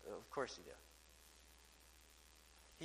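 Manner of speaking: a breathy whisper, very slow; whispered aside. Real, not acted. Preacher reassuring born-again believers, whispered aside. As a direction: drop to a whisper, almost to yourself.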